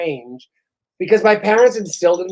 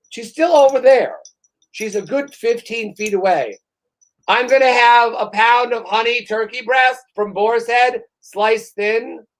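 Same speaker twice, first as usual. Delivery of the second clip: raised voice calling across the counter; mild mock yell; 4 semitones higher than usual. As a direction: call out the order to someone fifteen feet away. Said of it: "I'm yelling".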